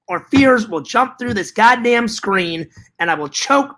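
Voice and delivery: hammed-up threatening tirade; mock outrage. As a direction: rail at the viewers in playful exasperation. Mock tirade at non-buyers.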